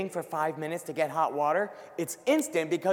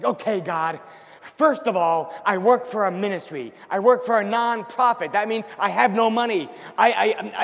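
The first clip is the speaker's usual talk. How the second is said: griping; 3 semitones higher, 5 dB louder than usual. Retold or imitated. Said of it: "griping and complaining".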